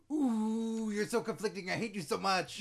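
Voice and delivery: lightly voiced British accent; a hint of a British villain; light British accent heel taunt; mock British accent. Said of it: "he speaks with a British accent".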